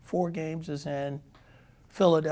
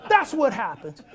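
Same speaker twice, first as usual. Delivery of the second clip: high, loud mock rant through laughter; laughing high shout; 7 semitones higher, 8 dB louder than usual. Manager mocking Saxy's throw, laughing and shouting high. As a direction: yell it while cracking up. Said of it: "He says".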